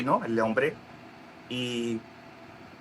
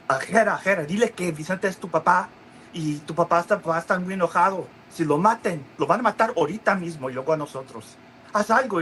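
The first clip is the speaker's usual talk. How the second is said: higher, pressed retelling of panic; urgent plea; 6 semitones higher than usual. Retold or imitated. Grandfather begging Gerardo, mock panicked plea. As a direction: beg him to act now.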